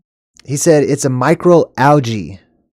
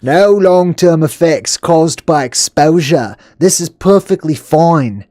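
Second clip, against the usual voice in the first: slow, drawn-out mocking echo; sarcastic repeat; 3 semitones higher, slower than usual. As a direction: drag it out, openly sarcastic. Mocking the health reassurance.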